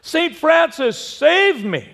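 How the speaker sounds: high desperate plea; cry out for help. Acted. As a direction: call to heaven in desperation. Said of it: "the poor fellow just cries out".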